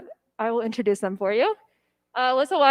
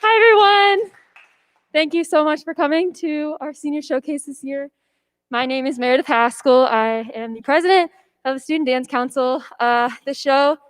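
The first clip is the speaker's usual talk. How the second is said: out of breath; 3 dB louder than usual. Real, not acted. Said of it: "sorry, I'm out of breath".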